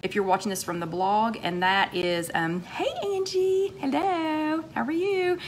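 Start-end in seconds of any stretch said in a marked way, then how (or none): 2.6-5.4 high, bright-toned hello to a friend; real delight as a local friend joins; excited greeting. Real, not acted. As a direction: greet her like you're thrilled.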